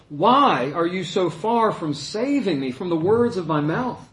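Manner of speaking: reading the psalm as a desperate cry. Acted. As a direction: cry by day and night, pleading. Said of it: "starts off with a desperate cry".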